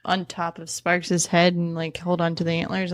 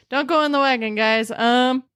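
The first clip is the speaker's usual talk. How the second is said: alarmed warning; 5 semitones higher, 4 dB louder than usual. Real, not acted. Sudden reversal warning.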